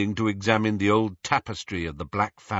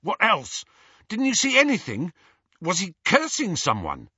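high, quick pestering questions; badgering; 9 semitones higher than usual. A narrator's reading. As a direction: keep pushing him for more. Ron badgering Harry.

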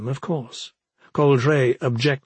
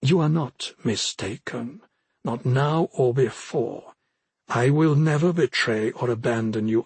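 measured, lightly voiced solemn vow; solemn Coldray. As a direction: pledge it steadily, with understated earnestness. Voices Coldray's vow on one knee.

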